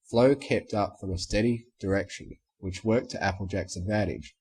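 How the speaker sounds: ordinary delivery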